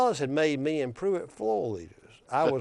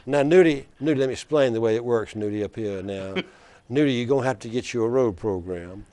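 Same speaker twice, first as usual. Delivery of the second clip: put-on Black Belt accent; 4 dB louder than usual. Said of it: "he says in that deep black belt accent".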